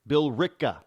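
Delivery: Billerica in three syllables, bill-RICKA; local pronunciation. Shown as a demonstration. Host teaching the town's name, Billerica said firmly as bill-ricka. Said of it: "for most people".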